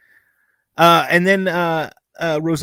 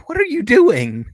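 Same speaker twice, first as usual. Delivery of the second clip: high-pitched, exasperated disbelief; retold baffled outcry, pitched high; mock bafflement; 10 semitones higher, 3 dB louder than usual. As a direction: question him as if he's lost it. Acts out reaction to actor's accent.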